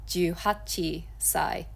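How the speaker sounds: juhachisai said slowly, marked as wrong; wrong reading. Shown as a demonstration. Teacher warning learners off the wrong reading, slowly. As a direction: juhachisai spelled out syllable by syllable.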